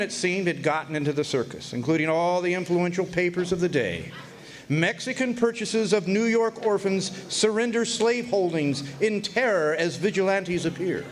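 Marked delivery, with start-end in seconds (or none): 4.7-11.1 lightly lifted, read like a bold newspaper headline; a touch of a newsboy's headline. Retold or imitated. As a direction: announce it as a front-page headline. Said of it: "read the headline".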